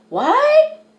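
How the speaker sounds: a sudden high, startled what; mock-shocked what. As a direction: throw out a disbelieving what. Shocked retort to his denial.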